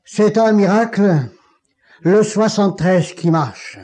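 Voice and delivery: mild retold exclamation of wonder; exclaiming. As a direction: proclaim the miracle aloud. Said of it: "il s'écria".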